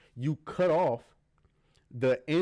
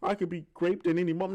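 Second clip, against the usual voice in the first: higher-pitched imitation of whining; mock complaining; 4 semitones higher, faster than usual. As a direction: lightly mimic a woman complaining. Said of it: "Did she go around complaining".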